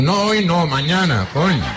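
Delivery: very high comic pig voice. Acted. Pig answers in the joke.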